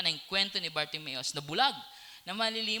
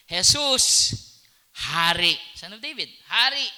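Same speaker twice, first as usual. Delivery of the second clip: loud plea; 4 semitones higher, 10 dB louder than usual. Acted. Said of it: "Kung i-simplify natin".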